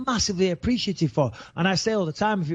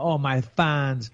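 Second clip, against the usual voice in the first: mock-gushing; 3 semitones lower, much slower than usual. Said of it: "come across as a little wanker".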